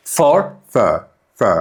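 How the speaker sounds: "for" reduced to a light, quick fr; barely sounded weak "for"; weak form of for. Shown as a demonstration. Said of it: "ኣዝዩ ሃሳስ ዊክ ዝኾነ ድምፂ". (ሃሳስ ዊክ "for")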